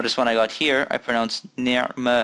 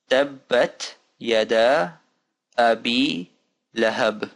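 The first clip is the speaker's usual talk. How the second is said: measured recitation, nominally faster, still drawn out; a bit faster; much slower than usual. Shown as a demonstration. Teacher repeating the phrase for learners, a bit faster. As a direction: recite it word by word a little more fluently. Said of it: "Now faster".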